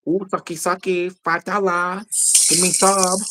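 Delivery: high sing-song put-on Asian accent; hammed-up Asian accent, pitched high. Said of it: "start putting on my Asian accent".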